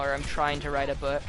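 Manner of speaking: self-correcting, weight on "trying"; stress on trying. Real, not acted. Would-be author correcting themself, stress on "trying". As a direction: lean on the word "trying". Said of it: "Emphasis on trying".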